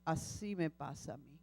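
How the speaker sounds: lightly voiced Lord speaking tenderly. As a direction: speak as a patient, loving God. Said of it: "escuchó al Señor".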